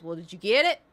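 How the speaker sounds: called out loud. Retold or imitated. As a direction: shout the question across. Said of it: "and he goes".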